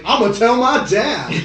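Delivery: a hint of a high whiny schoolkid voice; whiny kid. Mocking the snitching high school kid, whiny. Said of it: "the kid in high school".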